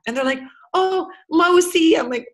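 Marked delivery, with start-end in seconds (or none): 0.7-2.0 high, loud, drawn-out parody of a keen beginner; mock eager French. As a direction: show off your French, slowly and proudly, in mimicry. Voicing Londoners showing off French.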